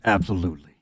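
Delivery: low put-on brute voice; Grumblejack. Game master answers as Grumblejack crunches hands, low brute voice. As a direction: drop the pitch for a ready brute. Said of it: "Grumblejack crunches his hands together".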